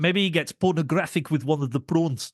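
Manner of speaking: put-on South African accent; playful South African accent impression; Sharlto Copley. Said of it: "that's what I've been doing".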